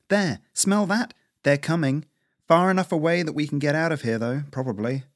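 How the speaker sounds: lightly voiced squirrel on watch; older squirrel, alert.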